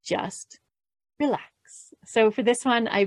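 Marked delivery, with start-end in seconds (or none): 0.1-1.4 soft mantra. Shown as a demonstration. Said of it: "our third mantra, which is".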